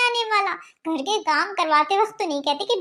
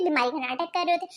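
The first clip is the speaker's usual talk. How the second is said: mocking refrain; 4 semitones lower, 5 dB quieter than usual. Shabnam mocks her husband's suspicion, low sarcastic drop. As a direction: drop much lower and softer, sarcastic.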